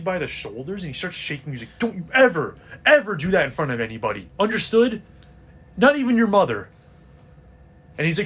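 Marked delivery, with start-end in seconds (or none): 1.8-6.7 urgent, frightened father's warning, a bit louder and higher; a dad scolding in fear, rushing the middle; scared stern father. Acted. GM voices scared dad shaking son.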